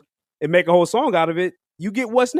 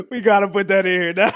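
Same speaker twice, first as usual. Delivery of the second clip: laughing; 4 semitones higher than usual. Real, not acted. Laughing about adding the clip.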